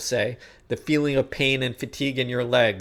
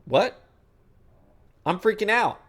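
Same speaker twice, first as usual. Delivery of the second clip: mock freaking out. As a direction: stammer as a rattled brain, then rise. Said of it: "Your brain goes".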